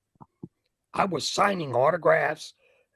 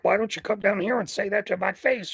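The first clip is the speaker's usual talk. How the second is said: mildly raised pitch, mock challenge; retold challenge; 4 semitones higher than usual. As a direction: call someone out, acting it out at normal volume. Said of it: "You know, I'm doing this pantomiming".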